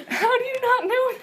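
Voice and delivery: high, laughing in disbelief. Real, not acted. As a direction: laugh it out, amazed. Incredulous laugh.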